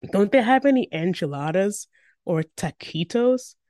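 pleading little brother. A narrator's reading. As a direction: plead like a hungry kid. Little brother complaining about food.

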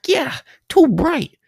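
put-on screeching, slow Italian American accent. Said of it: "screeches out in a thick Italian accent".

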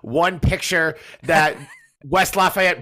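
slow, laughing through the words; chuckling while teasing a friend. Real, not acted.

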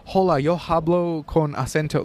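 slow, put-on Spanish accent; demonstrating an exaggerated Spanish accent; forced Spanish accent. Shown as a demonstration. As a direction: lay on a deliberate Spanish accent, drawn out. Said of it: "like, you know, like that".

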